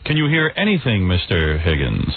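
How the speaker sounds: Peter Jennings. Acted. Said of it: "me as Peter Jennings".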